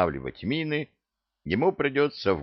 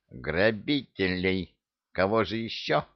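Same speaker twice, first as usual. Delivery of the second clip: grumpy grunt. Acted. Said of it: "сердито буркнул".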